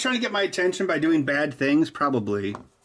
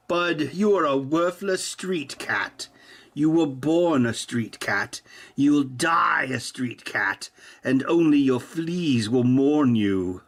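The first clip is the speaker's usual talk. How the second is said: 1 mock solemn insult; slower than usual. Mock insults to cat, slow.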